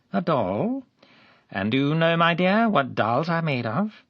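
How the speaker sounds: high, loud wheedling voice; sugary man leaning over a girl; sly coaxing. A narrator's reading. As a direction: coax the child with false sweetness.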